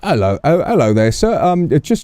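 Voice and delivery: a hint of a nervous bobby checking in; polite officer.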